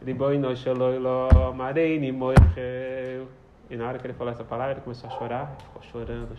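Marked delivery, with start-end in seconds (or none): 0.0-3.3 put-on slow, drawn-out Yiddish-accented Riboinoi shel oilom; slow tearful prayer. Teacher voicing the rebbe praying to the Master of the Universe, slow and drawn out. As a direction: pray it slowly like an old rebbe about to weep.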